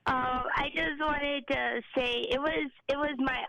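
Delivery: holding back tears while speaking; emotional. Real, not acted. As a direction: voice choked with real emotion. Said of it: "I get a little emotional".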